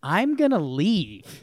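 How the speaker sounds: put-on British South African accent. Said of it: "my British South African voice".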